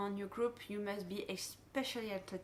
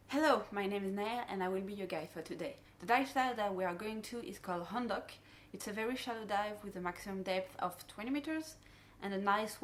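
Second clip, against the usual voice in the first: dive boat safety briefing. Shown as a demonstration. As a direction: friendly guide briefing divers. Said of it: "the dive briefing that I will do".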